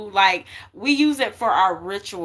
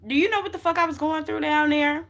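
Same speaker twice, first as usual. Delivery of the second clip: stern grandma; 6 semitones higher, faster than usual. Retold or imitated. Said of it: "just very stern about it".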